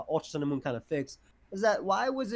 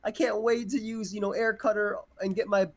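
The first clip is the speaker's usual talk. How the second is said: eager, raised-pitch looking forward; excited anticipation; 5 semitones higher than usual. Acted. Podcast guest voicing own hype for new moves, excited. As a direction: keep the hyped thought rolling, pitched up. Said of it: "I get more excited".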